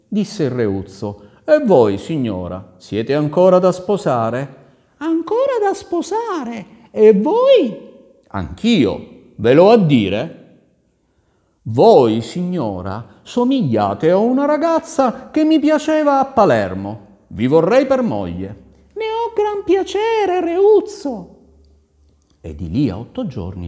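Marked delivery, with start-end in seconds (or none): 1.4-4.6 loud, drawn-out courtly question; courting prince. Acted. 5.0-7.9 very high-pitched, slow lady's voice; coy lady. Acted. Caterina answers the prince. 8.3-18.6 loud, pitched-up courtly proposal; wooing prince. Acted. 18.9-21.3 very high, slow, loud lady's voice; delighted lady. Acted. Caterina accepts the proposal.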